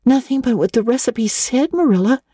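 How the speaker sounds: put-on high-pitched, worried girl's protest; anguished cry. A narrator's reading. Anne defends her cake to Marilla, anguished cry. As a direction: protest anxiously in a high young voice. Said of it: "cried Anne, with a look of anguish".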